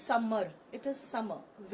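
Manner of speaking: summer को धीरे, साफ़ दो बार बोलो; गलत और सही summer का अंतर धीरे दिखाना; धीमा उच्चारण. Shown as a demonstration. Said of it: "So it is not". (summer धीरे-धीरे खींचकर)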